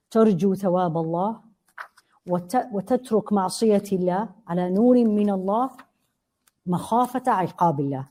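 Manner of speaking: fast recited Arabic definition; reciting Arabic text. Acted. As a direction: rattle off the memorized text. Quotes classical definition.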